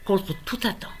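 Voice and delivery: deliberate recital with pauses between lines; poem reading. Acted. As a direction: recite a poem addressed to an unborn grandchild. Lit son second poème. (lecture de poème, posée et tendre)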